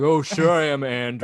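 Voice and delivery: imitated needling agreement; mock passive-aggressive. Retelling Luke's comeback to Andrew, mock passive-aggressive. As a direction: lightly act out a smug comeback. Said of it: "You're being passive aggressive".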